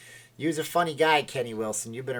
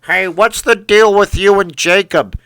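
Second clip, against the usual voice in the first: loud, higher pushy demand; mock nosy questioner; 7 semitones higher, 15 dB louder than usual. Streamer imitating people asking about Jacob, loud pushy mock questioner. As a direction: blurt it out like a heckler.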